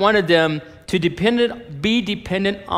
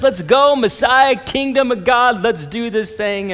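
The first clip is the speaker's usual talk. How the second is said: higher-pitched hyped-up party greeting; mock excitement; 5 semitones higher than usual. Preacher pretends Jesus is thrilled to see the crowd, mock excited. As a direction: act out over-eager excitement, easing off at the end. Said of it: "He's so excited to see them".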